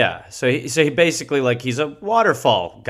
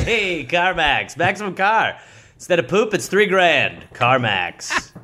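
mock commercial; 2 semitones higher, slower than usual. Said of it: "doing a Carmax commercial".

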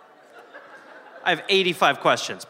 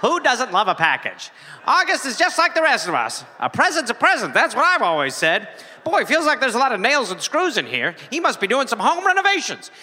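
neighbor voice; 3 semitones higher than usual. Acted. S0 acts out the nosy neighbor.

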